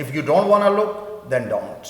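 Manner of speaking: brief break after "look", "then don't" falls; short break at comma. Shown as a demonstration. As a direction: take a quick breath at the comma. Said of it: "آپ short break لیتے ہیں".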